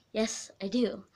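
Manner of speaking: breathy whispered comeback; whispered retort. Retold or imitated. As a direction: whisper it defiantly. Retorting to boyfriend's teasing.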